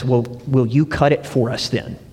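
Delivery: asking through a laugh; a sly question, laughing as it comes out; laughing foreman. Retold or imitated. Foreman dares the electrician to cut it, laughing. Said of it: "and so the foreman says".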